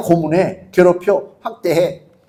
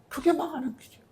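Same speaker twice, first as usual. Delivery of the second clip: much softer, a near-breathed repeat of 그게 망하는 길이요 with 그게 leaning; hushed warning; 5 semitones higher, 18 dB quieter, faster than usual. Acted. Preacher echoing his warning to the congregation in a hush. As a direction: drop the voice right down on the echo.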